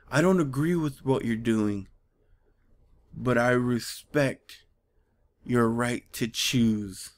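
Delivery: slow, measured mock-earnest line; stilted mock solemnity. The other Transformer speaking to her, stilted and solemn. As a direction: intone it gravely, drawing out the end. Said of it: "Who talks like that?".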